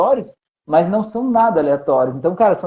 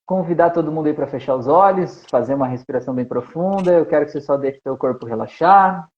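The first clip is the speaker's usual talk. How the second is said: guided meditation; 3 semitones lower than usual. Acted. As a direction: lead them gently into relaxation. Conduz meditação guiada ao vivo. (meditação guiada, voz calma)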